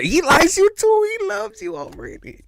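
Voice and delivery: high thrilled squeal; excited squeal. Real, not acted. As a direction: squeal it with delight. Excited reveal.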